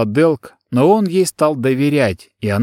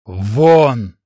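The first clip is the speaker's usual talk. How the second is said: loud barked get out; shouting out; 3 dB louder than usual. Acted. Adrik shouts the girl out again, loud. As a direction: shout her out. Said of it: "ещё несколько раз прокричал Адрик".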